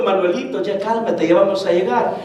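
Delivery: quiet, patient retold reassurance; affectionate calming. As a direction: echo someone tenderly calming a child. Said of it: "Cómo con cariño le viene diciendo".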